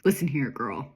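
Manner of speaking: lightly voiced low threatening caller; a hint of a deep disguised phone voice; modulated caller voice. Mystery caller warning off a young detective, lightly disguised voice. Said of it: "says this modulated voice".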